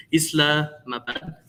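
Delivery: "Islamabad" drawn out slowly with a rising end; tentative slow retry of "Islamabad"; unsure pronunciation. Real, not acted. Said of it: "You'll be able to correct me".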